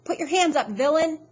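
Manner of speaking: high, loud superhero call; heroic shout. A narrator's reading. Freak bursting in on the villain, loud heroic shout. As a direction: shout it like a comic book hero. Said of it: "faraway voice is saying".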